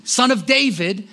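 loud pleading cry for mercy; retold shout. Blind man crying out to Jesus, loud plea. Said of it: "He starts shouting".

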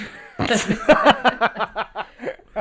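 high, loud burst of laughter. Real, not acted. Host laughs at her own science answer, a high loud burst. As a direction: crack up at your own answer.

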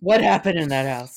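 a teasing ominous echo of the question; mock suspicious echo. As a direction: lean in like it's a dark secret. Echoing partner with mock suspicion.

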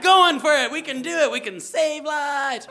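high, loud, euphoric shout; rally the team like heroes; hammed-up triumphant cheer; hyped-up rallying cry. Acted hype while rewashing everyone.

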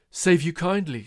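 hearty, loud and high; loud greeting. Acted. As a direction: call it out heartily.

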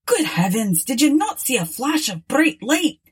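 sharp, exasperated demand; angry exclamation. A narrator's reading. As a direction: throw it at them, irritated. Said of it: "exclaimed the captain angrily".

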